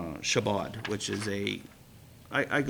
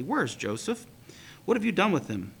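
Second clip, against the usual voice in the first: frantic calling; 4 semitones higher than usual. Acted. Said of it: "he called out frantically".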